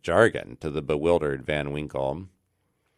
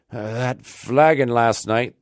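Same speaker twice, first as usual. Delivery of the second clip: Rip's bewildered thought; 5 semitones higher, 5 dB louder, slower than usual. Acted. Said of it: "thought he".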